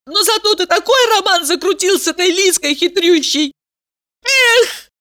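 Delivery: high, reproachful outburst; jealous girl accuses her boyfriend, a high hurt cry; hurt shout. A narrator's reading. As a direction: throw the accusation at him. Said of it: "закричала".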